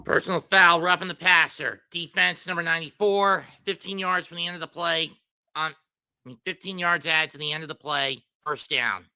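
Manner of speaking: measured, level referee-style call; penalty announcement. Acted. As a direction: announce the foul like an official.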